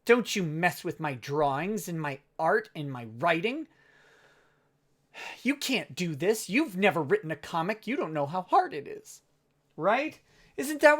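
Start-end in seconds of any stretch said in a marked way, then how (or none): 0.0-9.2 a haughty artist scolding an internet nobody, hammed-up; mock indignant creator. Offended comic pro answering a critic, mock huffy. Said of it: "and you were like".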